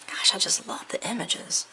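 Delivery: soft whisper of adoration; whispered delight. Real, not acted. Crafter whispering over the images, quietly adoring. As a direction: sigh it out in a whisper. Paper haul, hushed delight.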